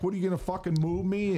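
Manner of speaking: put-on high, fast Zimbabwe accent challenge. Activist in a Zimbabwe accent daring the doorman. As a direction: dare him to move you, in a Zimbabwe accent. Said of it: "straight up Zimbabwe fucking accent".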